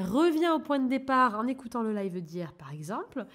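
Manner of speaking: ordinary talk, nothing marked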